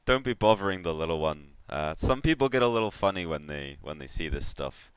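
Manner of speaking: lightly voiced worldly catfish baron; easygoing rogue giving advice; Baron Vol. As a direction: confide like an old soul collector, in character. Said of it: "the Baron says to Black Wolf".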